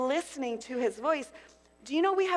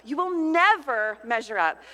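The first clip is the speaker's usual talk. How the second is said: louder, hammering accusation; 7 dB louder than usual. Acted. Preacher voicing the enemy, loud and hammering. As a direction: punch the word never hard.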